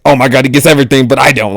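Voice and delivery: fast, mock-jealous griping; jealous whine. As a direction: rattle it off like a petty jealous friend. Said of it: "secretly jealous".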